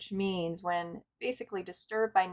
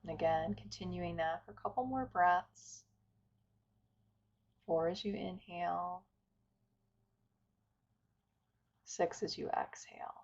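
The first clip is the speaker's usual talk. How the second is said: calm, unhurried meditation guidance with long pauses; guided meditation. Acted. Teacher inviting listeners to settle and follow the breath, guided meditation. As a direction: guide listeners gently through breath and stillness.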